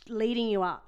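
breathy playful whisper; hushed, suggestive whisper. Acted. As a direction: drop to a teasing whisper. Teasing buildup of story.

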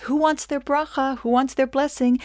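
inviting father. Retold or imitated. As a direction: offer the blessing like a beaming dad. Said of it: "And then he says".

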